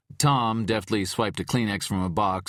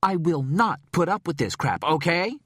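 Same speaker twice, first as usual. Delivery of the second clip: loud, higher angry outburst; furious; 12 semitones higher, 5 dB louder than usual. A narrator's reading. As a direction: lose patience.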